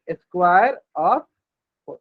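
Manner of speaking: teacher drilling square of four slowly; slow repeat. Shown as a demonstration. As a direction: square of four, drawn out with a pause. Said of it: "कैसे पढ़ेंगे इसको हम".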